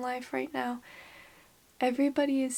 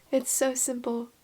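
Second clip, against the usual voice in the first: whisper. Real, not acted. Emotional confession, whispered.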